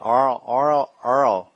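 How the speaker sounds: "oil" drawn out in a mock New York accent. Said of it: "they have a particular accent".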